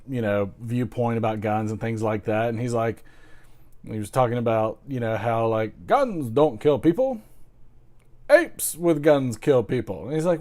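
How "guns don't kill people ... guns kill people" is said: higher-pitched British comedian impression; British accent. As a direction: do a British stand-up voice. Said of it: "my take on the British accent".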